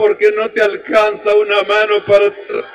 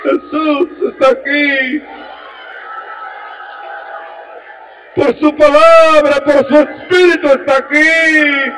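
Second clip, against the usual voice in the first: proclaiming; 3 semitones higher than usual. Real, not acted. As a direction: announce it to the whole church. Preacher proclaims presence.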